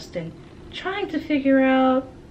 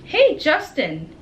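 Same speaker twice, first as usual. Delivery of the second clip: slow, higher call across the playground; 7 semitones higher, 5 dB louder, slower than usual. Acted. Emilio calling Justin from the tetherball court, drawn-out call. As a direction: stretch it out to reach him. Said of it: "Emilio calls out from the tetherball court".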